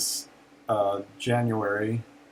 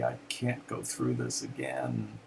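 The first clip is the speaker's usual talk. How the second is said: crying out in grief; 8 semitones lower, 6 dB quieter than usual. Retold or imitated. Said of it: "crying out".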